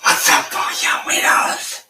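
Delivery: harsh, drawn-out loud call; loud greeting. Acted. Host greeting the weirdos, loud and drawn out. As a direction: blast a slow, noisy hello. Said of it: "why are you so fucking loud".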